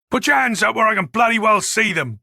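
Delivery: firm, forceful police command; stern order. Acted. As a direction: order an armed suspect to surrender. Detective orders armed suspect to surrender.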